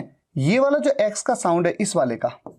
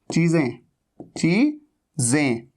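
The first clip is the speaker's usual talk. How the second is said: चीजें stretched very slowly on the z; slow model of the word; slow z drill; 3 semitones lower, much slower than usual. Shown as a demonstration. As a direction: drawl चीजें with a long z. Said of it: "वहां चीजें नहीं".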